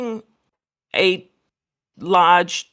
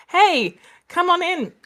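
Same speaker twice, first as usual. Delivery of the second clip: high, mock-friendly beckoning call; imitated calling over; 11 semitones higher than usual. Father calls his young daughter over, imitated high call. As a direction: act out a dad calling his child in.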